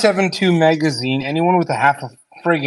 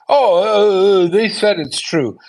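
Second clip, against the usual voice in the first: mocking voice; 4 semitones higher, slower than usual. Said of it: "he wants us to look at it and go".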